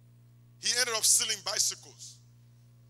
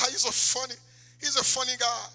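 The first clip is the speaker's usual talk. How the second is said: laughing, slightly raised mimicry; mock amused audience; 6 semitones higher, 7 dB louder than usual. People who thought the comedian happy, laughingly admiring.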